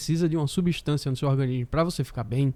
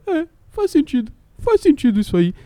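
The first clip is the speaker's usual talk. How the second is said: gullible listener; 12 semitones higher, 4 dB louder than usual. Retold or imitated.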